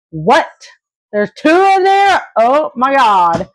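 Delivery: gasping at the ultrasound news; shocked. Retold or imitated. Mother hearing she's pregnant with twins, stunned high disbelief. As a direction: pitch shooting up high in disbelief. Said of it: "I was shocked".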